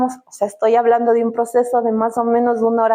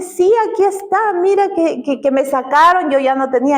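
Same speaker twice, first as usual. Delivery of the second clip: excited insistence; 5 semitones higher than usual. Retold or imitated. Friend's excited disbelief.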